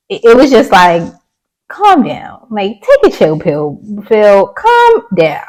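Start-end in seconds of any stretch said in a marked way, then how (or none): 1.7-5.4 mock telling off. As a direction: scold him, pitch jumping up. Telling Phil off in quote.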